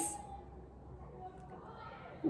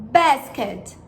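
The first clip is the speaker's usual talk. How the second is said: language lesson narrator; 2 semitones lower than usual. Shown as a demonstration. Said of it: "Now listen and repeat".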